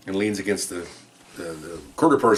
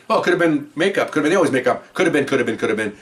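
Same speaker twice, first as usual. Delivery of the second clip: higher, louder sing-song listing of excuses; mocking defense lawyer; 5 semitones higher, 4 dB louder than usual. Officer mocks defense lawyer's excuses, singsong mockery. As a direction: parody the lawyer reeling off excuses.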